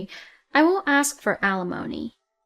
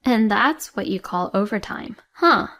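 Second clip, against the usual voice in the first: sarcastic accusation; 3 dB louder than usual. Acted. Wife confronts cheating husband.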